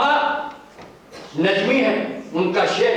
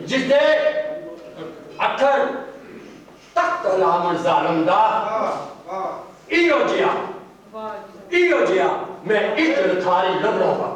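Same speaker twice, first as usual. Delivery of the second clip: poetry recital. Acted. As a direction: recite verse with a pause after each phrase. Recites a couplet at a mushaira.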